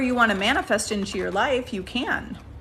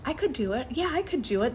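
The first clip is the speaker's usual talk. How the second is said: soft, upbeat self-affirmation; gently convinced yes; practiced confidence; 2 semitones higher, 3 dB quieter, faster than usual. Shown as a demonstration. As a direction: talk yourself into believing it. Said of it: "now you gotta practice".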